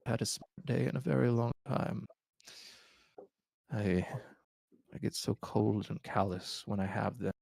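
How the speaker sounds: lightly voiced frail old man; weary old king confessing. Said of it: "he goes through his explanation".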